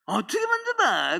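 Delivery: a hint of an old woman's high retort; elder's reply. Quoting a church elder's high reply to the preacher. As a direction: toss it back high, how could I. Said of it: "백억 만져보셨어요?".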